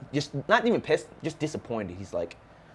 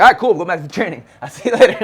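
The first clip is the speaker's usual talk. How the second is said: mock breezy; 8 semitones higher, 9 dB louder than usual. Mocking his own rush back.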